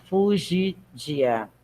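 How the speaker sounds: fugidia broken into slow syllables; spelled out slowly. Shown as a demonstration. Teacher spelling fugidia slowly for the class. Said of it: "vamos soletrar".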